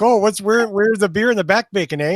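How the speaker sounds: Canadian accent. Shown as a demonstration. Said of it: "but it sounded like this".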